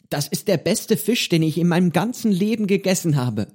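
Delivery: solemnly earnest praise; a boy's grave, sincere compliment. A narrator's reading. Pedro solemnly praising Johnny's fish, sincere. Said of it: "sagte Pedro feierlich".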